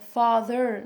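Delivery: father with the tongue curled on the final R; father with a clearly sounded R. Shown as a demonstration. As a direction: finish father on a full American R. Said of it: "roll your tongue".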